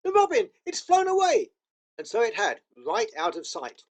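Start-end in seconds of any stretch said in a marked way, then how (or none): 0.0-1.5 high, eager call; Lucy spotting the robin, excited; excited cry. A narrator's reading. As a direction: point it out with delight. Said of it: "cried Lucy".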